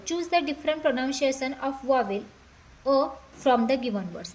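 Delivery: English words drawn out slowly; slow question reading. Shown as a demonstration. Teacher reading the question to students, slowly. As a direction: read it out slowly for the class.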